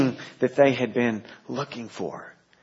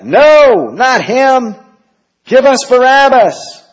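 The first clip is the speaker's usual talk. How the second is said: much higher, loud mob cry; crowd shouting; 13 semitones higher, 12 dB louder, slower than usual. Acted. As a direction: yell it like an angry mob.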